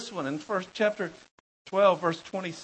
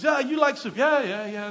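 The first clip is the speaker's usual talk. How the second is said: Radovan; 7 semitones higher, 5 dB louder than usual. Retold or imitated. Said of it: "And he says".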